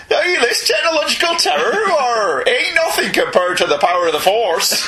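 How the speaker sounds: Northern Vader. Retold or imitated. Vader boasts about the Force in a Northern accent. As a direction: boom the line like a farmyard Vader.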